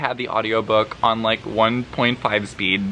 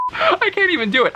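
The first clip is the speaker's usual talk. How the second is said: laughing too hard to do it; cracking up. Real, not acted. Cracking up at own failed impression.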